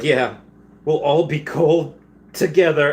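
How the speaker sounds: hammed-up cute creature voice; voicing the Pokemon. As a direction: chirp it like brave little creatures.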